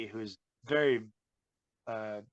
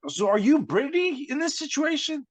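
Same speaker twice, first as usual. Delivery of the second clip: much higher, louder, mocking disbelief; mock incredulous question; 13 semitones higher, 5 dB louder than usual. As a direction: ask it like he's lost his mind. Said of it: "I was like".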